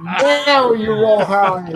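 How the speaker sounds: loud, drawn-out and laughing; helpless amusement at the bad timing. Real, not acted. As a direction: laugh through the words. Laughs at a badly timed high roll.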